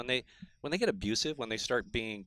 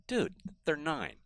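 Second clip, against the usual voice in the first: slow, patient talking-down; talking down to a parent; 4 semitones higher, slower than usual. Retold or imitated. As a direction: explain it like to a child. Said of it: "treat them like a little kid".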